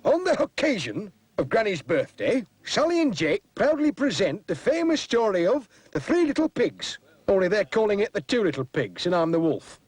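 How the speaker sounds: put-on high, grand little-boy showman voice; boy announcing the play. Boy announcing the play to Granny, proud and high. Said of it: "he says".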